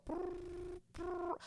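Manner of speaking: trilled "brr" like a dial tone; imitated phone ringing. Dialing mom's number, imitated ringing.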